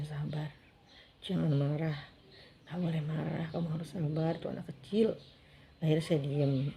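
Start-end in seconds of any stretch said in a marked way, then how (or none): 0.0-5.1 hushed, soothing aside; retold whispering. Husband calming his angry wife, retold hushed whisper. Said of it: "terus dibisikin".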